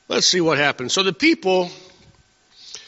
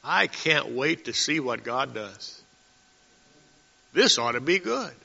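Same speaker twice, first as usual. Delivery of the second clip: faithful anticipation; 3 semitones lower, 6 dB quieter than usual. Retold or imitated. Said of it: "what you might say is".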